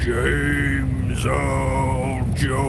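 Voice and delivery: deep, very slow, through a fan; deep James Earl Jones voice. Acted. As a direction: drag it out in a deep bass. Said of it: "deepen your voice so it sounds a bit more like".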